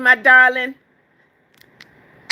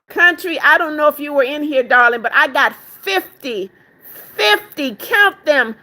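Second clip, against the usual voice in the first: excited bragging; 3 semitones higher than usual. Real, not acted. Brags about fifty gifts.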